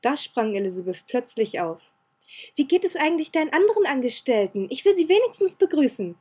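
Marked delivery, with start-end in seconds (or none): 2.6-6.2 put-on higher, louder eager girl's call. Elizabeth jumping up to greet the servants, calling out. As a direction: call out on the way to the door. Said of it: "rief sie".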